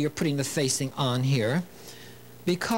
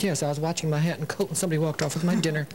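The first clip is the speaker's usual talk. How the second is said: laughing punchline; much faster than usual. Retold or imitated. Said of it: "He said".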